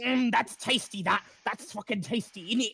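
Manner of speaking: high, loud, fast greedy rat chatter; squabbling rats. Acted. Rats fighting over ears, high loud bickering. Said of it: "a hundred voices all together going".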